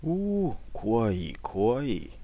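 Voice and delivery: put-on high teasing old man's "so scary"; mock fear. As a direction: pretend to be scared, amused. Priest mocks fear, laughing.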